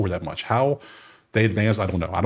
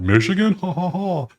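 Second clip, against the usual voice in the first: mock the doubters, cackling high; mocking laugh; 8 semitones higher than usual. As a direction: imitate people scoffing at the pick. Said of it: "The people are gonna laugh".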